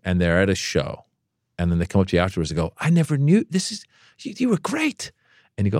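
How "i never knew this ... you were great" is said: high, gushing fan praise; squealing fan compliment. Retold or imitated. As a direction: gush like a starstruck fan. Fan gushing after show.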